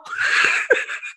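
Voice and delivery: breathy burst of laughter; short laugh at own joke. Real, not acted.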